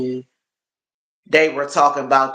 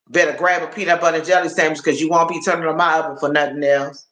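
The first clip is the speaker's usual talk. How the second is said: fast scolding; faster than usual. Retold or imitated. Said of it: "I said".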